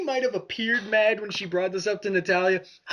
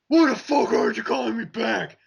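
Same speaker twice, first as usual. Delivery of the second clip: mild mock yell; a half-shouted impression of an annoyed caller; Natalia's drunk voicemail; 3 dB louder than usual. Replaying drunk voicemails between beeps, mildly mock-angry. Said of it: "The progression of drunk Natalia".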